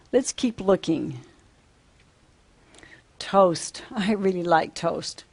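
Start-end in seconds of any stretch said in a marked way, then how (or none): 3.2-5.2 whispered. Shown as a demonstration. Naming object to children.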